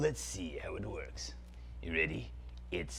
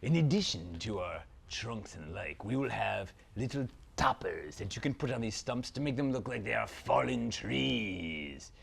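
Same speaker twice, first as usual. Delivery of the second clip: dark lord. Acted. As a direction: savour every word like an evil prince. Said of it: "Zaltar, Prince of Phantasm".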